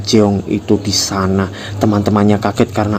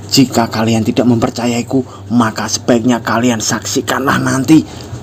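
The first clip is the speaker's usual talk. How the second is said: higher, louder call to the whole class; loud announcement; 3 semitones higher than usual. Acted. Jung declares to the classmates, loud and high. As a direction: announce it to the room like a threat. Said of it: "Lalu Jung berkata keras".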